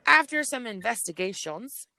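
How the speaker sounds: half-joking official tone; playful. Shown as a demonstration. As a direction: tease it like a mock case file. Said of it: "Okay, like, seriously".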